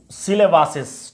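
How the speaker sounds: সিলেবাসেস said slowly, ending clearly marked; slow model pronunciation. Shown as a demonstration. Teacher giving the plural, slow and clear. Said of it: "অথবা কি করতে পারি?".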